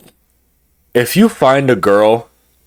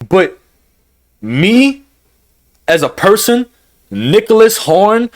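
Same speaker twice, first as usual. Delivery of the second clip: heated rant; 3 semitones higher than usual. Real, not acted. Vlogger venting to viewers, heated and raised. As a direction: let the anger rise as you say it. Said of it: "I am steaming at the top right now".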